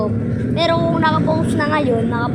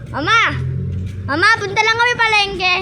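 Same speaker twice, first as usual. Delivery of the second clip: raised voice calling to someone in another room; 5 semitones higher than usual. Real, not acted. Calling out to mother.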